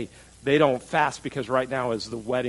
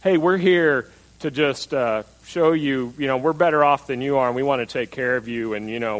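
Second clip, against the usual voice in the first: condescending. Retold or imitated. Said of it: "the difference of the attitude".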